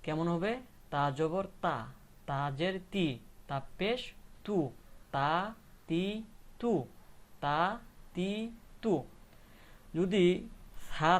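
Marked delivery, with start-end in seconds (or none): 0.9-8.9 তা, তি, তু recited as separate syllables; spelling-out drill. Shown as a demonstration. Teacher repeating the ta sounds for learners, spelling-out drill. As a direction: sound out তা, তি, তু one at a time. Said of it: "তাহলে উচ্চারণগুলা".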